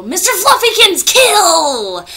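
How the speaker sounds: high, loud shouted dog command; shouting at her German Shepherd to attack. Pretend. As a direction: yell the order to sic the dog. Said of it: "I wanna go".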